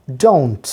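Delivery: "don't" as one clear syllable with an O glide; careful pronunciation. Shown as a demonstration. Teacher tells learners to mind the pronunciation, careful model word. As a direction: model "don't" slowly enough to copy, falling. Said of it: "প্রোনাউন্সিয়েশনটার দিকে খেয়াল রাখেন".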